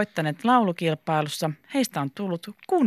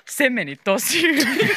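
higher, slower, smiling praise; 7 semitones higher than usual. A narrator's reading. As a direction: break into a pleased smile. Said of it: "tuli hymy suuhun ja sanoi". (hymyillen, venytellen)

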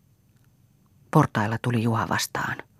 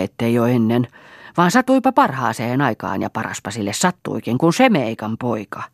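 furious. Acted. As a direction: lash out at the son. Mother rages at Juha. (äiti raivoaa Juhalle kiivaasti)

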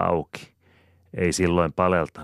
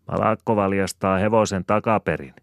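laughing taunt; 5 semitones higher, 6 dB louder than usual. A narrator's reading. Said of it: "nauraa Jopi pihalla".

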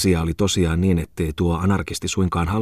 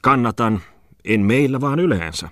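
higher, emphatic retort; character insisting; 5 semitones higher than usual. Acted. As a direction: insist on your point, pitched up. Character defends his opinion.

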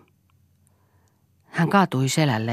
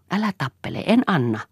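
shrill refusal; 6 semitones higher than usual. Acted. Siiri resists being grabbed.

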